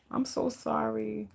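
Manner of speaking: soft, slow and drawn-out condolence; softly aching with sympathy; tender sympathy. Real, not acted. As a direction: console them gently, stretching the words. Consoling a viewer who is crying.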